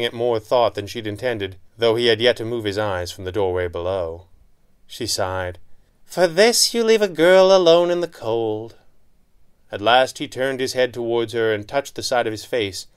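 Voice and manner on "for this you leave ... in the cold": higher, louder hammed-up grumble; mock complaint. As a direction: whine playfully at your partner. Mock complaint after a sigh.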